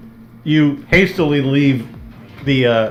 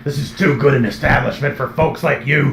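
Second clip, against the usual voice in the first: gravelly voice. Acted. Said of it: "allergic to gravelly voices".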